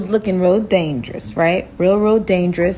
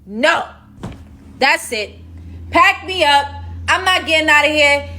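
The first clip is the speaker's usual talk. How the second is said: higher, excited mock panic; panicked; 7 semitones higher than usual. Herself panicking after the robber's threat. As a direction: rattle off your doom in a fluster. Own panicked inner voice retold.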